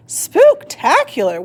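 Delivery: high slow excited shriek; screaming. A narrator's reading. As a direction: scream with glee. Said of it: "Witch screamed".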